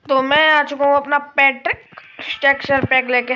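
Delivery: talking through hiccups; hiccupping mid-sentence. Real, not acted. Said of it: "मेरे को थोड़ी हिचकी आ रही है".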